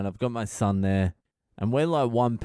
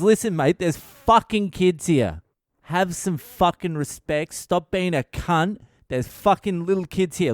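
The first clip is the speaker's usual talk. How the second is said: high, raised, furious telling-off; unleashing in anger; 6 semitones higher, 3 dB louder than usual. Retold or imitated. Bystander scolding Greek man for swearing near kids, angry unleashing. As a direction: let loose on him, acted outrage. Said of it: "He's just unleashing".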